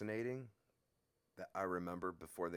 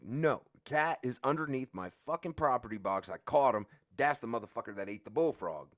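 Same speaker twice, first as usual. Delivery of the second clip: louder, pressing his case; insistent; 6 semitones higher, 10 dB louder than usual. Retold or imitated. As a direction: insist hard, almost shouting. Insisting to the guard.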